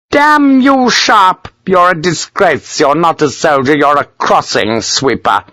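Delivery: high outburst, slowing into scorn; furious colonel. A narrator's reading. Colonel denouncing a defiant lieutenant, furious. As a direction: explode high, then drag out the insults.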